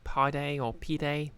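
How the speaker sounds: "pide or pide" as two contrasting two-syllable guesses; alternative pronunciations. Shown as a demonstration. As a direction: slowly try "pide" as pie-day, then pee-day. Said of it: "actually pronounced pied, or is it like".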